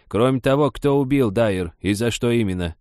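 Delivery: put-on mildly fierce old woman; drill-sergeant impatience, lightly acted; fierce bark. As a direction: bark at a dim recruit, restrained. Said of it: "Свирепо, как прапорщик на тупого новобранца".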